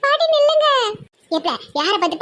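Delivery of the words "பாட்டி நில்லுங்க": much higher, fussy feminine squeal; high mock woman's voice. Man playing a girl squeals at the grandma running past, high fussy voice. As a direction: pitch it way up like a silly girl.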